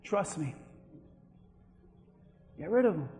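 very soft, low voice of God; quiet reassurance. Acted. Preacher as God answering the plea, quiet low assurance. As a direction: drop right down, hushed and low.

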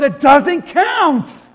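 slow, firm repeat of the ruling; old man insisting. Retold or imitated. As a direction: spell it out to the stubborn golfer.

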